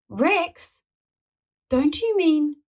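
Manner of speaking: high, startled question; alarmed. A narrator's reading. Boy alarmed at the thought of the T-Rex. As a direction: gasp it in disbelief.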